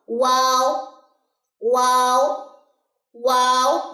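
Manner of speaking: واو rounded and soft, stretched. Shown as a demonstration. Teacher showing a soft letter. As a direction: let واو flow out gently. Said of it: "بہت اس کی نرم جو ہے وہ sound ہے".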